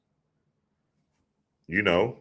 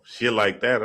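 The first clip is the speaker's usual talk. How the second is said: usual speaking voice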